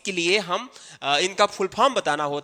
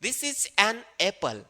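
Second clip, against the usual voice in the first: "This is an apple" very slow, an stressed; slow an emphasis; 2 semitones higher, 4 dB quieter, much slower than usual. Shown as a demonstration. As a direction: slowly stress an. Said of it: "first letter vowels है".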